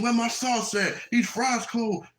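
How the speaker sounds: mock yelling customer. Customer griping at Chick-fil-A staff, mock high-pitched yell. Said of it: "you yell at them".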